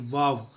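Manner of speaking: वाव said as vaw; वाव with an English V; V pronunciation. Shown as a demonstration. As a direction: start वाव with lip on teeth. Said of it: "वी A W".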